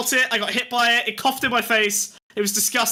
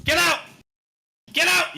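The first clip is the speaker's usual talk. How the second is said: commanding; 6 semitones higher than usual. Pretend. Orders the demon away.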